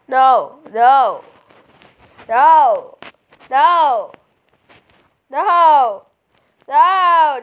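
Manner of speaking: refusing a hated character, loud protest; repeated loud no. Real, not acted. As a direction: keep shouting no at the screen. Refusing unwanted team member.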